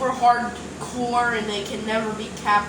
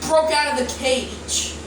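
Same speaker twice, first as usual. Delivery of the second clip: pretend panic; 2 semitones higher, 12 dB louder, slower than usual. Dinosaur breaks out of cage.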